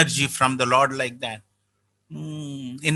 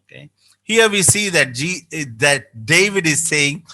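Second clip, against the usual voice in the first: ordinary talk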